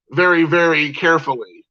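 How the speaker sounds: lightly put-on mock Japanese accent; a quick, light imitation of a Japanese accent; mocking Japanese accent, only lightly voiced; faux Japanese accent. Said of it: "he said with a faux Japanese accent".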